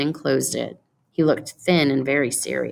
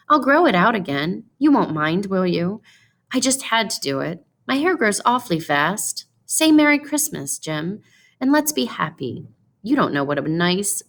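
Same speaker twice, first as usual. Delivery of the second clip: put-on higher, eager pleading young wife; Della, pleading; 4 semitones higher than usual. Della pleads with her husband over her cut hair, higher and eager. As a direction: rush to win him over, anxious and hopeful.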